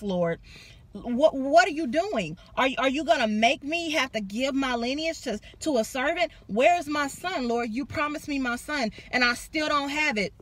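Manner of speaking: a touch of hammed-up indignation; mock angry Abraham. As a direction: voice Abraham's frustration, pushing hard. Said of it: "Abraham gets mad and he's like".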